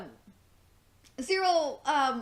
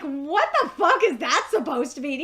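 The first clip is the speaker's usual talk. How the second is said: mock outrage; 5 dB louder than usual. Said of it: "And I'm just like".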